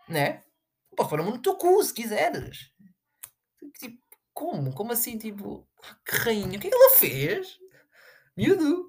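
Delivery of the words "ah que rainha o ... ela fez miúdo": high, loud demanding cry; exasperated shout. Acted. Challenging fans who praise her, an exasperated high shout.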